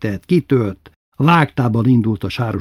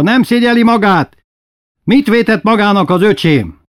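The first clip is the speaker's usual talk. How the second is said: very high, loud outraged shout; furious yell; 11 semitones higher, 7 dB louder than usual. Acted. Memike defending her brother, high furious shout. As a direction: shriek the accusation at him. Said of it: "ordította".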